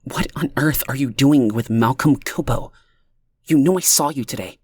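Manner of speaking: hushed whisper into the phone; spoke low. A narrator's reading. Leah whispering into the mouthpiece away from Amanda, hushed. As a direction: keep it low so the room can't hear. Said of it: "spoke low into the mouthpiece".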